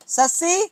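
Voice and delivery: "सस्सी" said without the t, a light rise on the end; t silent. Shown as a demonstration. Teacher showing students that tsetse is said with silent t. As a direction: drop the t and say just "सस्सी". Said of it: "टी silent".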